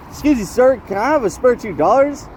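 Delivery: lightly put-on pleading question, rising at the end; mock polite begging. Imitated homeless person asking a passer-by for money, mock polite begging. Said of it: "He'll pass by the cleanest homeless person".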